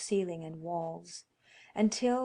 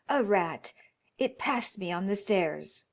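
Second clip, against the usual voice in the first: shaky lie; 4 dB louder than usual. Acted. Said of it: "said the old man in shaking tones".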